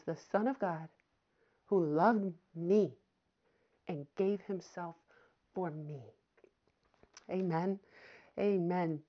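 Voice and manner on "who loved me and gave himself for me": slow, lingering who loved me; slow call-and-response. Real, not acted. Preacher leading the congregation in the verse, slow. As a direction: lead the church slowly. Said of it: "Say it with me".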